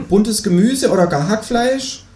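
slow, high-pitched kangaroo. A narrator's reading. Kangaroo suggests fillings to neighbour, high voice. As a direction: draw out the request in a high kangaroo voice. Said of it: "sagt das Känguru".

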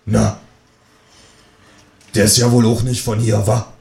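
a hint of a nosy old neighbour; lightly voiced neighbour. Neighbour lady gossiping on the stairs, lightly voiced. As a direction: gossip in a slightly altered voice. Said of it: "fragt sie".

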